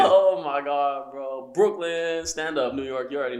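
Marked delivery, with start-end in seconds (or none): 0.0-1.5 excited. Real, not acted. Thrilled at Brooklyn idea. 1.5-3.1 excited. Real, not acted. Hyping up hometown.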